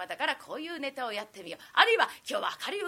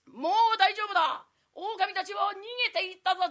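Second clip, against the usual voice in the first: calm samurai voice; 5 semitones higher, 8 dB louder than usual. Acted. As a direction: speak like a composed swordsman. Samurai reassures onlooker.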